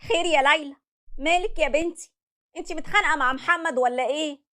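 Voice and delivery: worried mother. Acted. Mother asking her upset daughter what happened, worried. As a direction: ask gently, a mother sensing trouble.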